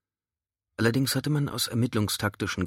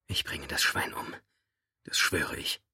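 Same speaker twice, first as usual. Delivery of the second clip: strained whisper through tension; pressed whisper; 4 semitones lower, 5 dB quieter than usual. A narrator's reading. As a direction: hiss the vow out tightly. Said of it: "eine gepresste Stimme".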